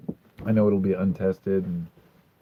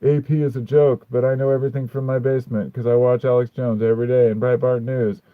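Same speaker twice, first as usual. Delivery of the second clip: lightly voiced smug basement dweller, louder; mock conspiracy theorist; 6 dB louder than usual. Streamer mocking a basement conspiracy theorist, mild mock smugness. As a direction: sneer out their smug reasoning. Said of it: "go back into their little dungeon and realize".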